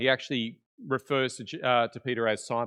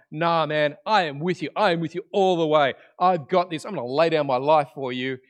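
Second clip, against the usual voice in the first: emphatic, louder pledge of loyalty; acted bravado; 2 semitones higher, 6 dB louder than usual. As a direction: insist you are in all the way. Acting Peter's confident promise to Jesus.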